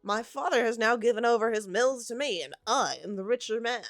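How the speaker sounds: crying out. A narrator's reading. Young Drebber boasting to his rival, loud and eager. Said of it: "cried the other".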